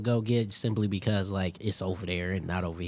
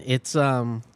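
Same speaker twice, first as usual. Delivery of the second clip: talking with mouth full; words around a bite of food. Real, not acted. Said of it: "I was talking my mouth full".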